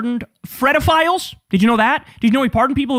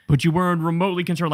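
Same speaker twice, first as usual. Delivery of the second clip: mocking a smug politician's stump-speech tone; lightly voiced smarmy senator; 5 semitones lower, faster than usual. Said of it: "smug politician routine".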